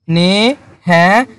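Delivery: surprised. Shown as a demonstration. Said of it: "উনি অবাক হয়ে গেছে".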